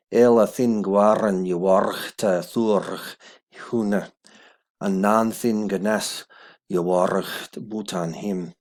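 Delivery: put-on slow, loud, careful Old English recitation; Old English reading. Shown as a demonstration. Teacher reading the third verse aloud in Old English. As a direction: sound out each Old English word slowly and clearly. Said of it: "third verse".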